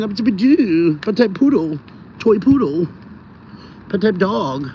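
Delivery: lightly voiced poodle catchphrases; imagined dog voice. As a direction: talk for the dog, a touch put-on. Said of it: "That's why I picture he talks like".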